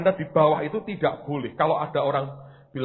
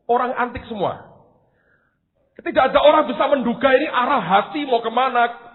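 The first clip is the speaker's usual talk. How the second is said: ordinary delivery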